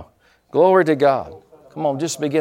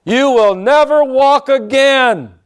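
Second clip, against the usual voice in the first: loud, high, drawn-out taunting shout; booming accusing voice; 12 semitones higher, 8 dB louder, slower than usual. Retold or imitated. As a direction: imitate a big menacing voice in his head. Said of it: "I heard this voice say".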